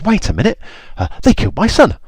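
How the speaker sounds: high, loud outraged king; outraged Pharaoh. Acted. Pharaoh voiced, angry about son.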